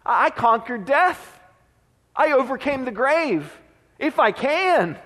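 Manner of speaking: a touch of hurt disbelief, not angry; slow, incredulous retort with gaps between phrases; mild frustration, indignant but held back; mildly frustrated. Acted. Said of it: "with a little bit of frustration".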